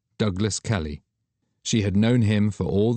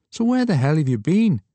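higher, louder demanding question; Douglas pressing; 9 semitones higher, 5 dB louder than usual. Acted. Friend demanding to know where she was, higher and louder. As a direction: press her for an answer.

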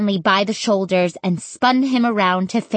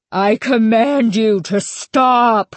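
slow, emphatic raised cry; screamed command; 3 semitones higher, 4 dB louder than usual. A narrator's reading. Stanley commanding the scarecrows, raised slow scream. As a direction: order them desperately to halt. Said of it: "Stanley screamed".

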